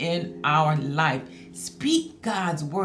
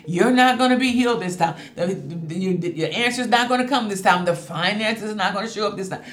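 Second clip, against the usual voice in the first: faster, louder taunting as the enemy; enemy screaming; faster than usual. Retold or imitated. Preacher voicing the enemy's taunts to the congregation, a fast loud sneer. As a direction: spit out the doubts like an accuser shouting. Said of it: "screaming loud at you".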